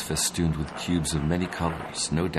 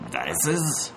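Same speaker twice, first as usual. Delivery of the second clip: "Dices?" jumping way higher in confusion; a baffled, high-pitched "Dices?"; confused stammer; 12 semitones higher than usual. Acted. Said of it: "he stammered".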